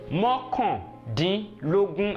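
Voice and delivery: Mọ́kàndínlógún drawn out in parts; slow teaching model. Shown as a demonstration. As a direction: repeat the number slowly for learners. Teacher models number word slowly.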